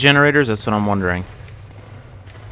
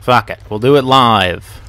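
defiant declaration; 5 dB louder than usual. Acted. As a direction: declare it like a TV host losing it. Famous quote, declared loudly.

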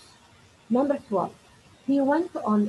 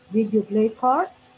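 slow, louder model answer; slow corrected sentence; 4 dB louder than usual. Shown as a demonstration. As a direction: say the fixed question slowly. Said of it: "يبقى لازم اخد الايه".

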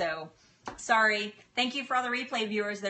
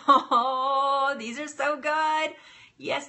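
higher, louder, slowed-down gush of delight; 5 semitones higher, 6 dB louder, much slower than usual. Real, not acted. To her viewers about her meatballs, delighted gushing. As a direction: rave about the food, drawn out.

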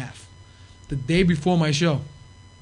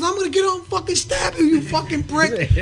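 enraged threat; 11 semitones higher than usual. Retold or imitated. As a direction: threaten him at full rage. Sandman threatening cab driver.

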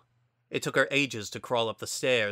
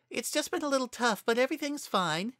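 forced cheerfulness; 13 semitones higher, faster than usual. A narrator's reading. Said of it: "but put on a smile".

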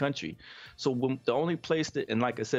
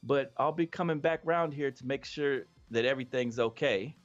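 higher, mock-polite sheriff; sheriff's reply; 4 semitones higher than usual. Sheriff warning the family off, higher mock-polite voice. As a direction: play the sheriff sweet but warning. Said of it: "And he said".

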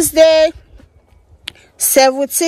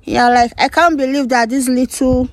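talking around a lollipop; candy in the mouth; sucking a lollipop. Real, not acted. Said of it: "Sorry, guys, my lollipop".

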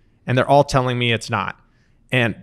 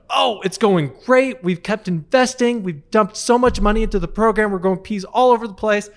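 excited dad; 9 semitones higher, 3 dB louder than usual. Retold or imitated. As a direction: gush like a proud father about his peas. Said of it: "And he goes".

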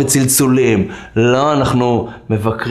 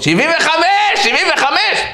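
high-pitched crazed chant; madhouse shouting. Retold or imitated. Madmen chanting to a passer-by over the wall, high mock shouting. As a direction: yell it out like a rowdy inmate. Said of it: "שומע צעקות".

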